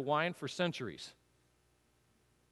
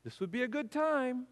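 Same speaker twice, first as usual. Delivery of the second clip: softer repeated hint; 5 semitones higher, 6 dB quieter than usual. Retold or imitated.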